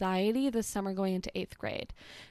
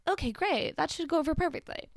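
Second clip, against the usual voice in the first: put-on sarcastic kid; 7 semitones higher than usual. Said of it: "And I'm like".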